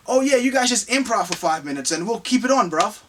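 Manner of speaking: badly faked New Zealand accent that slips into English; Taika Waititi. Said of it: "Did a terrible job of the accent".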